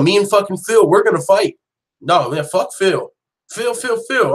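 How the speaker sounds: a hammed-up fighter sneering the name Phil; mocking trash talk. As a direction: ham up a cocky fighter running his mouth. Imitating Jackson trashing Phil.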